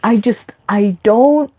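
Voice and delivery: anxious spiraling. Retold or imitated. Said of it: "And I was like".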